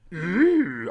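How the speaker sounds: high, loud mock aroused groans.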